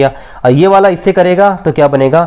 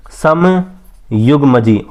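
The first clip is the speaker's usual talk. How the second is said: stretched very slowly, syllable by syllable; drawn-out term; much slower than usual. Shown as a demonstration. Teacher stretching the answer word for students to write. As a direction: drag समयुग्मजी out so the class catches it.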